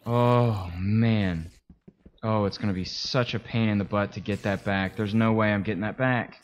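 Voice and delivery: loud, exasperated lament; loud dismay. Real, not acted. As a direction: wail over a big loss. Dismay at losing items.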